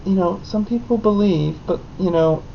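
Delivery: a hint of a calm teacher; soft teacher explaining. Teacher quietly explains to the boy aside, gently. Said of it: "teacher pulled me aside and was just like".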